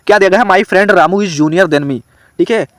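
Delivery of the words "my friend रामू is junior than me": slow dictation read. Shown as a demonstration. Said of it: "चलो ढूंढो इसमें गलतियाँ".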